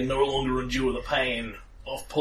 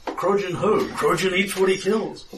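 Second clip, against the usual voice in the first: higher-pitched onlooker's chatter; gossiping crowd; 5 semitones higher than usual. Acted. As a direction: pass on gossip as a puzzled bystander. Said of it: "hear the whispers like".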